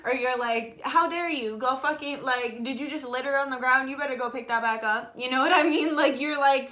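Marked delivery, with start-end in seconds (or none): 0.8-5.1 mock scolding. Scolding partner who littered, mock outraged telling-off. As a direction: scold them like a strict parent, half joking.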